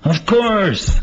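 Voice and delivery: high, loud, eager voice; Nigger. Acted. Playwright voices the eager friend reassuring Melvin, high and loud. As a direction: answer like it's obvious, bursting with certainty. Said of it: "And he's talking to Nigger in this one".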